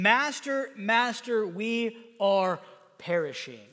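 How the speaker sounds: measured, emphatic plea; understated cry for help, slowing at the end. Acted. Disciples wake Jesus in the storm, understated crying out. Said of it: "They were crying out".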